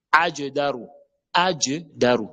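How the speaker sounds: ajdaru with J echoed, "aje-daru"; bouncing qalqala jim. Shown as a demonstration. Teacher drilling qalqala, jim released with a bounce. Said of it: "Jim, lettre col colon".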